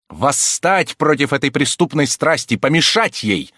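forceful exclamation. A narrator's reading. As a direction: urge her forcefully to resist. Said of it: "с силой воскликнул аббат".

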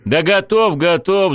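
high, loud hurried yell; shouting. A narrator's reading. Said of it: "закричал я".

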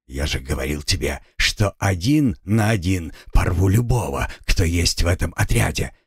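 hissing feral vampire. Acted. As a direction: hiss it like a predator. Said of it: "прошипел вампир".

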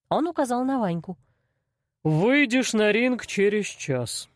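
slow, unhurried menacing boss; lightly voiced cold boss; calm crime boss. A narrator's reading. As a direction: explain the fights like it's business. Arsen voiced by narrator.

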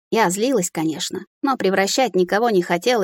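ordinary delivery

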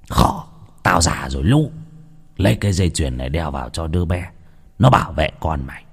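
put-on an old man calling after them in a low voice; old shaman. Shaman calling Đào back for the necklace, low voice.

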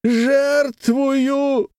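high, slow, weighty declaration; high slow solemn word. A narrator's reading. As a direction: pronounce it like a vow. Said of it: "Он произнёс".

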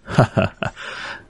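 an airless, quiet ha-ha laugh; breathy hearty laugh. A narrator's reading. Sáu laughs at Nguyệt's teasing, quiet breathy laugh. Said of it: "Sáu cười ha hả".

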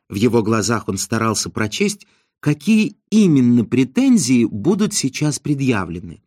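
ordinary delivery, nothing marked

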